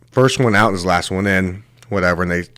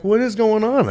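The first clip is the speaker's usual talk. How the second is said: imitating panic; 14 semitones higher than usual. Panicked kid reacting to shark.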